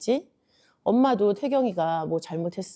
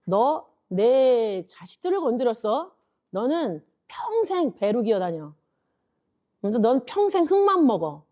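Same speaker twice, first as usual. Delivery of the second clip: stern curse; 4 semitones higher than usual. Acted. God cursing the serpent for touching His children, stern curse. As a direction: pronounce judgement like a protective parent. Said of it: "하나님이 바로 저주를 해주신 거지".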